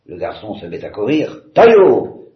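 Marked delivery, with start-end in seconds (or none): 1.5-2.3 loud, high hunting yell; howled hunting cry. Acted. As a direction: set the hounds loose with a roar. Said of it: "hurle le général". (hurlement de chasse aigu et fort)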